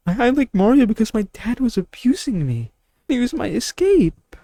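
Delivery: hammed-up tearful confession; mock crying. Imitating a viewer breaking down over his abusive dad, mock crying.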